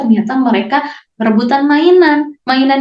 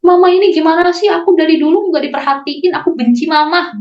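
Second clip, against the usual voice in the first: mock angry outburst; 3 semitones higher than usual. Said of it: "mencaci maki orang tua kita karena saking kesalnya".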